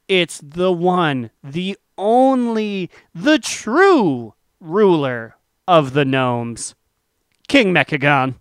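slow dramatic build-up announcement; grand announcer reveal. Acted.

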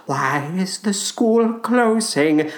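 put-on slow, hollow gloomy kid; mopey gothic child. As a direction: drag it out like a sad ghost child.

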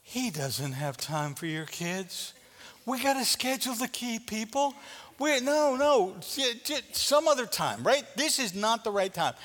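playing the busy disciples waving people off; impatient disciples. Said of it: "They're like".

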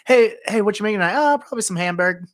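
a lightly mocking Boston girlfriend. Imitating a friend's ex saying Hamburg in a Boston accent. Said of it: "she would always just say".

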